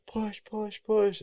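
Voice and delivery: high mock shout of push; high-pitched coaching yell; retold coach cheer. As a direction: call it out like a coach urging a runner. Coaches yelling during the run.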